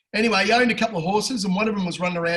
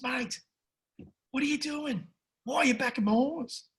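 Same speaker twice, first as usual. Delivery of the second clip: high, softer voice of baffled disbelief; acted incredulous questioning; 6 semitones higher, 5 dB quieter than usual. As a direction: question him in a high, hushed pitch. Owner confronts bloke backing his horse.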